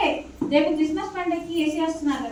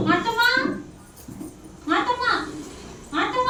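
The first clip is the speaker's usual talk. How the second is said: calling out; 6 semitones higher than usual. Acted. Lady calls the maid.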